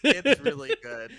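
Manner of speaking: loud, high-pitched insistence over crosstalk. Real, not acted. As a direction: raise your voice so he finally hears it. Repeats it loudly to be heard.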